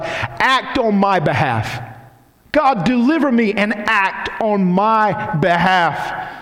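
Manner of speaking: slow, high prayerful plea; earnest prayer. Acted. David asking God to act, slow high plea. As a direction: ask God earnestly, slowly.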